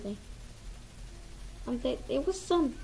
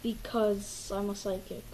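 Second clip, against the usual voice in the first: put-on girly voice; 4 semitones lower than usual. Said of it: "why does your voice sound like a girl".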